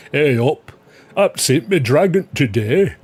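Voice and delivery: jokey broad Yorkshire character; Yorkshire accent. Acted. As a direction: play it up in Yorkshire dialect. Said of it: "Someone's gotta do that".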